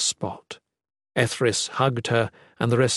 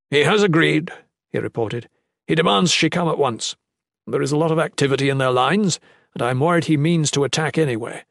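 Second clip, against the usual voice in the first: lightly voiced messenger, a higher pitch; duke reporting urgently; 3 semitones higher than usual. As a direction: report worried news to those waiting.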